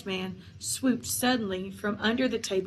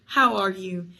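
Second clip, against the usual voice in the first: loud, hearty greeting; hearty roar; 6 dB louder than usual. A narrator's reading. Headless huntsman greeting his host, loud and hearty. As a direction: boom out the greeting. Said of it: "he roared".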